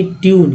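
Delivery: ट्यून with a long "yoo" glide; YU sound. Shown as a demonstration. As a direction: say ट्यून as "tyoon". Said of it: "ई यू का उच्चारण हुआ".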